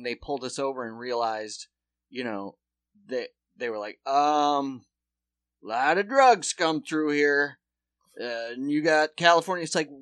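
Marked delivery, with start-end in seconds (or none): 4.1-9.6 slow, louder cop voice drawling suspicion; mock traffic cop, slow and loud; imitating a cop. Comedian imitating the cop who pulled them over, slow and loud.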